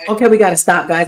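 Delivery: ordinary talk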